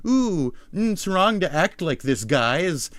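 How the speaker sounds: high, sanctimonious mock scolding; mock moralizing. Mocking quote of grandstanding moralizers.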